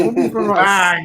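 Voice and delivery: slow words through real laughter; giggly slow mockery; laughing. Real, not acted. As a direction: laugh while teasing your mate. Teasing mate about corned beef.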